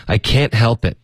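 "can't" hit firmly, falling; emphatic falling "can't"; stress on can't. Shown as a demonstration. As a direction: push down hard on "can't". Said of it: "can't会加一点重音".

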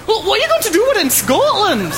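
high, loud mock Scottish accent; exaggerated Scottish impression. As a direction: put on a hammed-up Scottish voice. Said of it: "working on the accent".

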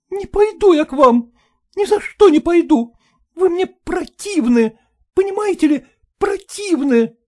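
high, loud refusing wife; voiced wife, loud revulsion; furious wife. A narrator's reading. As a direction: stretch out противны in contempt.

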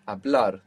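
Hablar with the weight on BLAR; final-syllable stress. Shown as a demonstration. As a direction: land on the end of Hablar. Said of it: "Accent on the end".

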